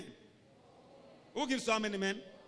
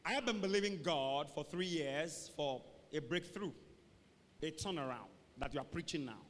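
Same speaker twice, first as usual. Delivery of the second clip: mock weary testimony; 4 semitones lower, 3 dB quieter than usual. Acts weary member claiming to have faith.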